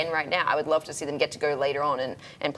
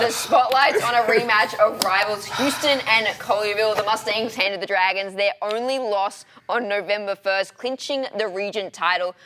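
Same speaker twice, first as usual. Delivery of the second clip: measured, slowed anchor delivery; polished news read; 2 semitones higher, slower than usual. Shown as a demonstration. Co-host shows the others how to read, slow anchor voice. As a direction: read it like a pro newscaster. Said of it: "This is how you read".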